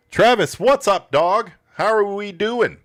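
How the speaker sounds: loud, high pumped-up hello; big loud bro greeting; hyped greeting. Pretend. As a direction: greet him like a hyped car salesman. Mock greeting to a seller.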